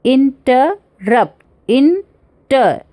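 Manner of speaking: इंटरप्ट broken into slow beats, in, ter, RUPT; anapaest stress. Shown as a demonstration. Teacher splitting इंटरप्ट for students, slow syllables, last one stressed. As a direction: spell out इंटर beat by beat, saving weight for रप्ट. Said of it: "मतलब दो soft है".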